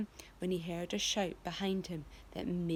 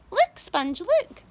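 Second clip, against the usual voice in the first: astonished cry; 10 semitones higher, 9 dB louder, slower than usual. A narrator's reading. Spiker astonished.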